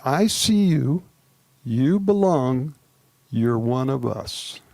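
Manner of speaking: slow and tender, each phrase given room; a slow, heartfelt blessing to a partner. Shown as a demonstration. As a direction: say it like you mean it, gently. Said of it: "Here's what you're gonna say to your partner".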